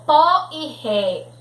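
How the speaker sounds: "pó" and "ré" said with strong open vowels; forceful open vowels. Shown as a demonstration. Teacher showing pupils the acute accent, "pó" and "ré" forceful and open. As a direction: hit "pó" and "ré" with open o and e. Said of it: "produciados com força e com som aberto".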